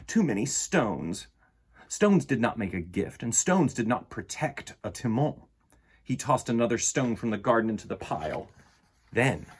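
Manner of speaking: put-on gentle read-aloud for children; storybook reading. A narrator's reading. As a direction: read it like bedtime story time. Reads picture book aloud.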